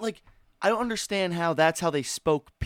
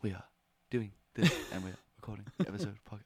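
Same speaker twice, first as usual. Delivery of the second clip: imitating voice; 5 semitones lower, 11 dB quieter, much faster than usual. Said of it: "It was a voice".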